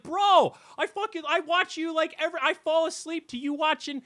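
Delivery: very high, loud gushing bro; excited bro. Retold or imitated. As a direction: gush like an overexcited fan. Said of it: "It's like".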